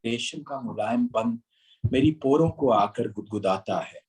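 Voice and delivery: slow, measured romantic poem; stately nazm recitation. Acted.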